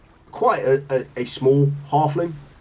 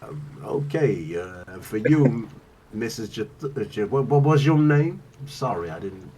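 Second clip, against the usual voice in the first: Solomon; 3 semitones lower than usual. Acted.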